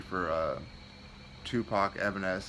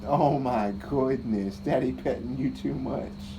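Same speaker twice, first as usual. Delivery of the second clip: loud, slow delighted gush; 4 semitones higher, 5 dB louder, slower than usual. Real, not acted. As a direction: gush over the cat loudly. Excited with his cat.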